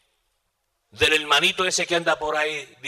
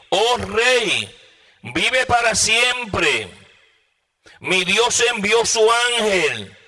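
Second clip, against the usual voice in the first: high, slow declamation to a king; ringing preached answer from afar; proclaiming reply; 4 semitones higher, slower than usual. Acted. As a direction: call it out solemnly, stretching the phrase ends. Preacher voices Daniel answering the king.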